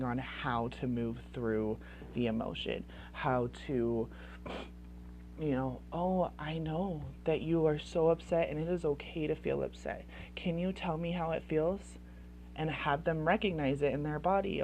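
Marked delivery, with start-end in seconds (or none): 5.9-12.0 soft, soothing parent voice; gentle, caring. Acted. Parent asking an upset child about feelings, gently. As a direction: softly coax the child to open up.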